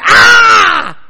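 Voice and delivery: very high, very loud shriek; play-acted cry of alarm; acted panicked scream. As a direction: let out a sudden mock-panicked scream. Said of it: "next time you feel like going".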